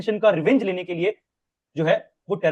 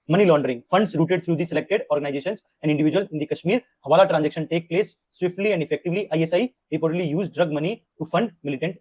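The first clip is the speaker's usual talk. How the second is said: very slow, word by word, for notes; slow note-dictating read; slow dictation; much slower than usual. Shown as a demonstration. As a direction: dictate so students can write.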